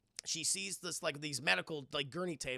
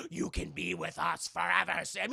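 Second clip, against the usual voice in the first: ghostly wife. Retold or imitated. Ghost wife tempts him.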